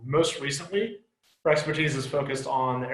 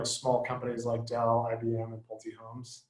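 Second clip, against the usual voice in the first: dry, understated sarcasm, trailing off softer; sarcastic; 2 semitones lower, 5 dB quieter than usual. Real, not acted. Host introducing guest lists her big-name employers, dryly sarcastic. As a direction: slip in a deadpan sarcastic aside. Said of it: "That was sarcasm".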